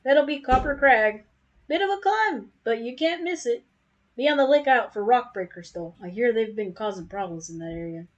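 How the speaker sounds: southern-drawling merchant giving directions; southern accent. Acted. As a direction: point the travelers on with a southern twang. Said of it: "I'm giving him a southern accent".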